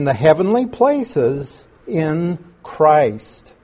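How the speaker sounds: measured, solemn reading of the passage; scripture reading. Acted. Pastor reading Ephesians aloud to his class, solemn and measured. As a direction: read the verses out deliberately to the congregation.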